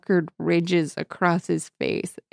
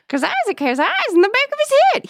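much higher, faster prospector voice; hammy old-timer, rushed; cackly wheezy old timer; faster than usual. Shown as a demonstration. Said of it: "He says it twice".

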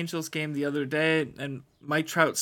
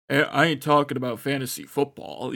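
lightly voiced tough guy, a bit louder; firm, louder go at a deep-voiced ballplayer; attempted deep voice; 5 dB louder than usual. Co-host showing how he imagined the player, mock deep voice. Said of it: "it would just be a deep one".

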